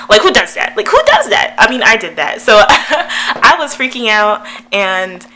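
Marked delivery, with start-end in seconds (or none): 0.1-0.7 raised voice, a little higher; exasperated exclamation. Real, not acted. Vlogger mocking her own giggling, exasperated. 0.8-1.5 very high, loud disbelief; incredulous squeal. Real, not acted. Vlogger mocking her own giggling, squealed incredulity. Repeats exclamation far higher.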